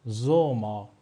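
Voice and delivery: زوما with a buzzing z at the start; German Sommer demo. Shown as a demonstration. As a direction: model زوما loud and clear.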